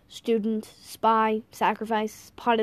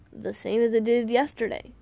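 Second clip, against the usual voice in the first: yawning. Acted. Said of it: "I said, yawning".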